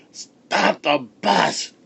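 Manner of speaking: high, slow drawn-out cry. A narrator's reading. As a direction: wail it out desperately. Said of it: "he cried".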